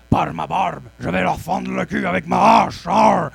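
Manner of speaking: hammed-up Scottish dwarf yelling; mock Scottish battle cry; Scottish accent shout. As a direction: bellow like a pirate-y Scottish dwarf. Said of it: "ils gueulent avec un accent écossais".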